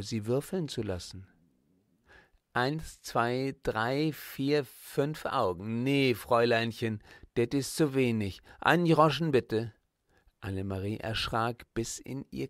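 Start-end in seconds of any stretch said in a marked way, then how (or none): 2.5-9.7 Berlin stall owner. Acted. Stall owner counting, Berlin dialect.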